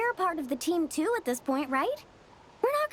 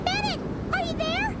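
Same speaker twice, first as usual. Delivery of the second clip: calling out; 12 semitones higher than usual. Acted. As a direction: yell for him, growing worried. Searching for lost friend, calling.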